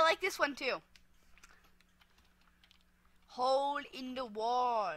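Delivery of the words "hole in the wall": put-on slow, drawn-out British accent. Player naming the next minigame, playful British accent. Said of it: "talking in a British accent".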